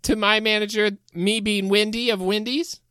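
high Wendy voice. Acted. Wendy voice continues.

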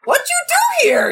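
tiny wary creature, high and slow; Jake creature voice. Acted. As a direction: squeak out a suspicious question.

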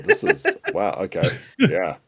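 flustered high voice. Acted. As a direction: squeak it out, caught off guard. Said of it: "he's just like".

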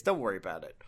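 hushed whisper. Retold or imitated. Mentoring disciple hushing the new recruit in a whisper. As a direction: breathe it out as a secret. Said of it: "mentoring disciple is just like".

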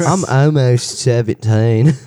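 slow, drawn-out odd voice; a dazed, slurred new voice; new character voice. Acted. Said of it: "Oh, new character voice".

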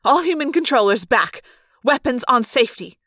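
loud, sharp command; snapped order. Acted. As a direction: bark the order at the troops. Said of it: "the woman snapped".

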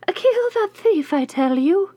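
high, slow and loud witch cry; shrill witch shout. A narrator's reading. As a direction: yell it at the kitchen woman. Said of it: "called out".

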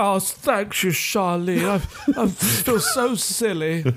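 high, slow, embarrassed thanks; sheepish knight. Retold or imitated. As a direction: thank her, feeling silly. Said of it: "he's like".

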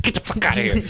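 high-pitched dismissive outburst; mock banishing. Banishing monkeys on ostrich.

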